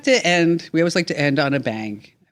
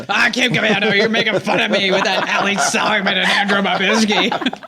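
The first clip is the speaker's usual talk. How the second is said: lightly voiced grumbling old reader; a hint of a cranky old man complaining; 3 semitones higher than usual. Voicing Carol's email.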